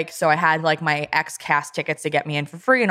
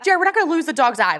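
calm him down with exasperation; exasperated reassurance; 11 semitones higher than usual. Retold or imitated. Wife retelling calming her panicked husband, raised exasperated. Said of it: "And I was like".

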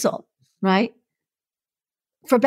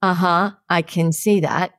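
slow, snarky retort; mock a snarky accompanist, drawing it out; dry put-down, lightly acted; 2 semitones lower, slower than usual. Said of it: "he's really snarky and he goes".

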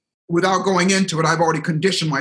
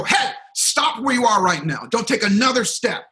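mild mock yell, pitched up; retold yell; 6 semitones higher than usual. Speaker halts a leaving audience with the microphone, in a mild retold yell. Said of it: "So I yelled at them".

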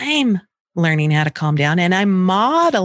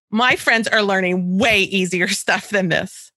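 put-on whiny child. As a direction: drag it out like a sulky kid. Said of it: "actual things that she said to me".

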